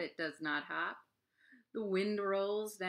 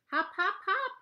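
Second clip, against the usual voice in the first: high squeaky rabbit shouts; rabbits shouting; 12 semitones higher, 6 dB louder than usual. Acted. Frightened rabbits shout to each other, high and loud. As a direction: pitch way up like panicked bunnies. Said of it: "they shout to each other".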